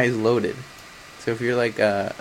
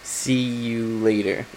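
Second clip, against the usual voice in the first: slow, even robot voice; 3 semitones lower, 3 dB quieter, slower than usual. Pretend. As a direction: say it like a machine. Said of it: "That was my robot voice".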